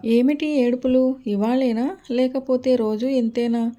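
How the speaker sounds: put-on frowning at the crying kids; annoyed demand. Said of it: "నొసలు టి-, చిట్లించి అంటున్న". (కోపంగా, గట్టిగా ప్రశ్నించడం)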